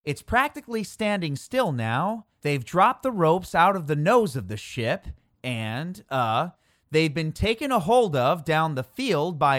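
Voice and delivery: like an announcer calmly reporting a landing, then alarm creeps in; tense radio reporter. Retold or imitated.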